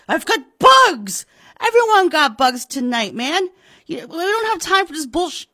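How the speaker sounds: high, loud, insistent shouting; heated phone argument. Acted. Pratt arguing with the police sergeant, angry. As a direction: shout him down.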